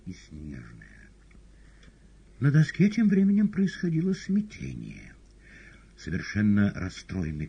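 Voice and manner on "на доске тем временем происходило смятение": high, loud story narration; dramatic narration. A narrator's reading. Narrator announces chaos on board, dramatic. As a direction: announce the turmoil.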